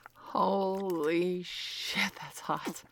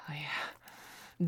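aroused whisper; 2 semitones lower, 6 dB quieter than usual. Acted.

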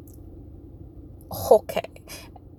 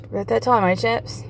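put-on British accent; 2 semitones higher than usual. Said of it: "England's like".

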